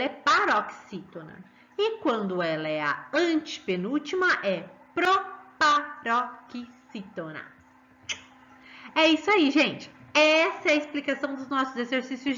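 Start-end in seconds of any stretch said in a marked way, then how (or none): 4.9-7.5 proparoxítona slowly broken into its syllables. Shown as a demonstration. Teacher recapping the term, proparoxítona syllable by syllable. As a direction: separate each beat of proparoxítona, taking your time.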